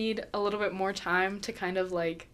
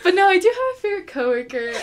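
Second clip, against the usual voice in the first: laughing; 9 semitones higher, 9 dB louder than usual. Real, not acted. Still giggling after the coworker question.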